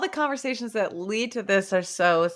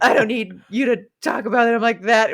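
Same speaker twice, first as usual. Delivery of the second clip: mock indignation with some laughter, louder; retold burning up; 3 semitones higher, 5 dB louder than usual. Kindly burning up at the two recruits, mock indignant. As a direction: imitate someone fuming, amused underneath. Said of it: "burning up, being like".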